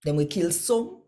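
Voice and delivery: Jesus rebuking Pharisees. Acted. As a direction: scold them like a prophet warning. Jesus rebukes the law teachers.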